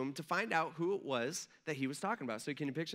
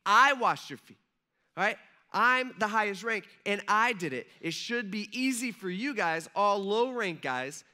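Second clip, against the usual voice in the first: emphatic preaching; 4 semitones higher, 6 dB louder than usual. Real, not acted. Pastor challenging young listeners, loud and emphatic. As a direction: hammer the point home to the room. Preacher driving home the point.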